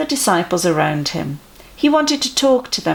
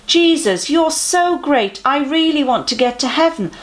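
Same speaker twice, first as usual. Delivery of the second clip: much higher, eager fawning voice; eager man in the crowd; 8 semitones higher than usual. Acted. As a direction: gush up at Jesus like a keen admirer.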